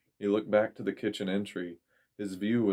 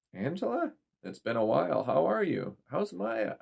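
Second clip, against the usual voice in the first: mother; 9 semitones higher than usual. A narrator's reading. Mother voiced on the phone.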